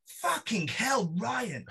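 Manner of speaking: high, drawn-out posh exclamation; posh tutor's accent. Retold or imitated. Posh tutor reacting to her student's writing, high posh accent. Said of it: "my tutor, she's quite poshy".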